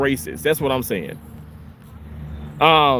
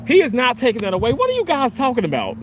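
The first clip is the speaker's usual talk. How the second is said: indignant rebuttal; 6 semitones higher than usual. Real, not acted. Rebuts a viewer's claim about Trump.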